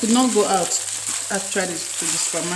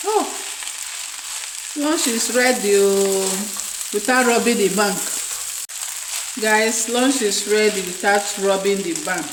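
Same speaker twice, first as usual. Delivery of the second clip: yelling across the room. Real, not acted. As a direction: shout that lunch is ready. Calling guys to lunch.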